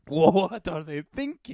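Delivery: loud slow mocking echo; exaggerated echo. Echo, louder and slower.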